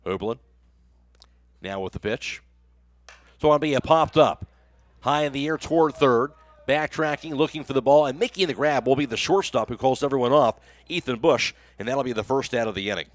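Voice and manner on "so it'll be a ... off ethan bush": lifted, punchy call of a fly ball; excited play-by-play. Real, not acted. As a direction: follow the catch live with mounting energy. Live call of pop-up out.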